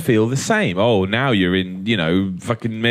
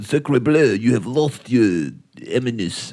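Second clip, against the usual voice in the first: mock French accent, slow; hammy French chef voice; slower than usual. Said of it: "With French people going".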